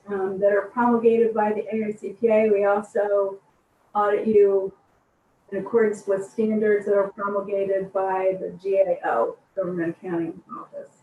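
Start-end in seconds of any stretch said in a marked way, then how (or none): 2.5-10.9 distant speakerphone sound. Real, not acted. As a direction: voice coming through a far-off speakerphone. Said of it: "it sounds like you're on a speakerphone from way far away".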